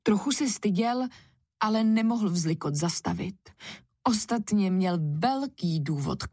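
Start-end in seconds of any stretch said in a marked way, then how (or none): none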